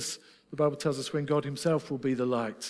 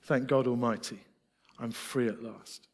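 solemn quoted spiritual; 3 semitones lower than usual. Retold or imitated. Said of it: "this great Negro spiritual".

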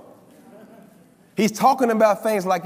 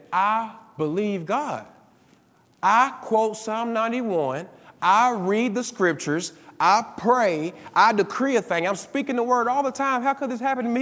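retold panic; 3 semitones higher than usual. Retelling a panicking caller on the prayer line, mildly distressed protest. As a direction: imitate an upset caller listing her efforts. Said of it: "she's panicking, and she's crying".

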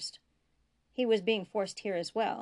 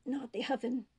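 strained, higher voice of a dying prisoner; pleading dying man; 4 semitones higher than usual. A narrator's reading. Dying prisoner begs Bashir not to be burned, pleading. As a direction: beg weakly, the voice pitched up.

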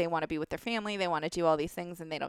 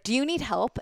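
aggressive; 6 semitones higher, 3 dB louder than usual. Retold or imitated. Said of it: "the way that he said it was so aggressive".

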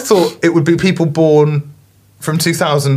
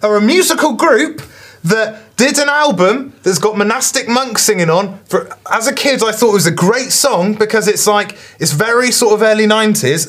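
higher, exasperated rant; frustrated; 6 semitones higher than usual. Real, not acted. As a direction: vent the frustration. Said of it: "'cause I'm getting frustrated now".

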